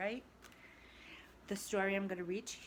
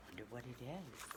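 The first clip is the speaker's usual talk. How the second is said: soft, quick, hushed curious aside; hushed wonder; 3 semitones lower, 9 dB quieter, faster than usual. Real, not acted. Teacher pausing the story, a hushed curious aside. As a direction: lean in and murmur it.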